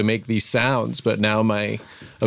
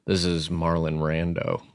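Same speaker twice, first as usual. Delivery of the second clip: switching impression voices; 6 semitones lower, 5 dB quieter, slower than usual. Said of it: "celebrity impression".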